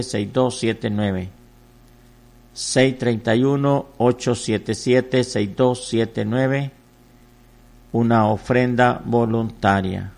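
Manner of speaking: slow, drawn-out digits in steady rhythm; offering appeal read-out. Real, not acted. Pastor asking for a voluntary offering, slow rhythmic appeal. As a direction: repeat it slowly like a telethon appeal.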